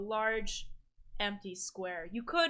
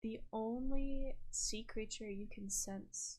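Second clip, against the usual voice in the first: hushed scene setting; 7 dB quieter than usual. Acted. Game master tells Galen what is sensed, hushed.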